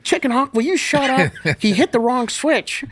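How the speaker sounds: calm him down with a loud scold; exasperated hushing. Retold or imitated. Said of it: "Gritter's like".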